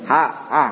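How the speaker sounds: "Ha, ha" as if a stick props the mouth open; ha terbuka. Shown as a demonstration. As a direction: push out an open "Ha". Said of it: "Seperti mulut kau tuh disodok". ("Ha" seperti mulut disodok kayu)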